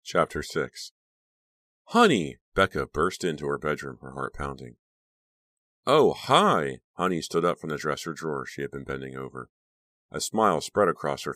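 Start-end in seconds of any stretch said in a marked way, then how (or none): 1.9-2.4 high, louder call of the name; bursting-in call. A narrator's reading. Girl bursts into her bedroom, calling out sharply. 5.9-6.8 high, louder chirpy hello; bright fake greeting. A narrator's reading. Friend caught in the room greets her brightly.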